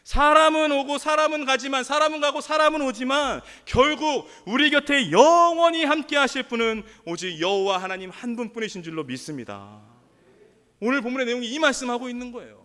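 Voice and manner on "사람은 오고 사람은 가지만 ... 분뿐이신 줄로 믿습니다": preaching. Real, not acted. Preacher declares only God stays with us forever, preaching. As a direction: declare it to the congregation with force.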